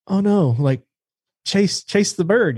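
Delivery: high, drawn-out plea to the dog; retold urging. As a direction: mock-desperate coaxing, pitched well up. Retold pleading with his dog.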